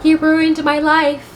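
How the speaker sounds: high, drawn-out mock lament; imitated wailing complaint. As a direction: imitate an upset wife, slowly and high-pitched. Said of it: "Devin just takes a translator and was like".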